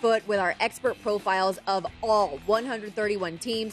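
promo read, punched opening line. Real, not acted. Host plugging the betting guide to listeners, ad read. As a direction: sell the guide like a radio spot.

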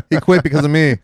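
said through a laugh. Real, not acted. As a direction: laugh while delivering the joke. Laughing joke.

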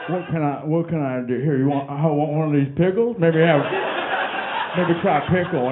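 a hint of a hapless mumbling boyfriend; sheepish guy. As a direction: shrug it off, offering a pickle. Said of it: "who's just like".

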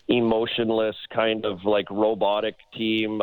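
slow, emotionless robot voice. Shown as a demonstration. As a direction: say it like a monotone robot. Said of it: "talking in my robot voice".

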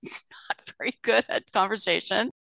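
a quick whispered aside through a laugh. Real, not acted. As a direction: drop to a breathy half-laugh. Laughing aside about a dull CEO.

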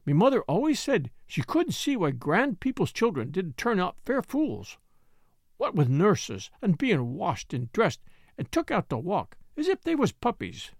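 lightly voiced Yorkshire maid, chatty; a hint of a blunt Yorkshire servant girl; Martha's Yorkshire voice. Maid chatting to Mary about grand children, lightly voiced.

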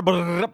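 weak rolled-lip drum roll; failed lip brrr drum roll; lip-trill drum roll. Shown as a demonstration. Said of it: "that was the worst drum roll ever".

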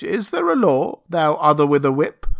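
high, loud pleading question; anxious beast-man. Acted. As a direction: beg for an answer like a frightened brute.

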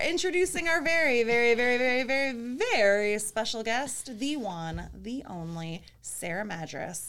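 hyped ring announcer build-up; announcer intro. Acted. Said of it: "I feel like I need, like, intro music".

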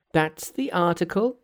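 high Monkey voice with a hint of a laugh; gleeful aside to himself; Monkey chuckling. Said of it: "laughed Monkey to himself".

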